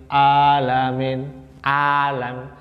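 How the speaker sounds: alamin and alam with a plain open A like hamzah; level, stretched alamin and alam with the A left ordinary; ordinary, hamzah-like 'ain. Shown as a demonstration. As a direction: slowly show alamin without any throat squeeze. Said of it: "Beda kan sama Hamzah".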